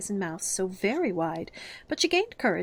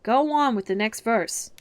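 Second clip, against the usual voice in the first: louder, slower repeat; insistent repeat; 3 semitones higher, 6 dB louder, slower than usual. Acted. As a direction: repeat it with more force. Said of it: "the Gryphon repeated".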